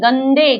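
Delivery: गंदे with the nasal ं sounded clearly before द; teacher correcting गदे to गंदे; nasal shown. Shown as a demonstration. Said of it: "गले से बोला जाता है".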